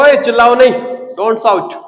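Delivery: loud scolding "ओए"; teacher snapping at a noisy class. Retold or imitated. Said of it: "अब teacher क्या कह रहा है". (डाँटते हुए ज़ोर से)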